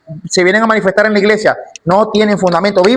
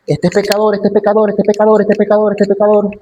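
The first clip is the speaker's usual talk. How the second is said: repetitive accusation on one raised, even note; relentless accuser; 3 semitones higher than usual. Acted. Accuser denouncing believers before God day and night, droning relentlessly. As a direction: chant the charge over and over without variation. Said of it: "el acusador de nuestros hermanos".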